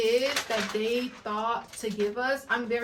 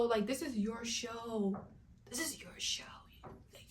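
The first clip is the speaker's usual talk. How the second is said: dropping much softer in disbelief; exasperated hush; 10 dB quieter than usual. Real, not acted. Vlogger scolding the reboot's creators, soft and stunned. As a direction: let it sink to a stunned soft repeat.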